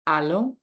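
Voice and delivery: "allons" alone, ending on the vowel, no S; silent final S. Shown as a demonstration. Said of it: "Notice how I pronounce".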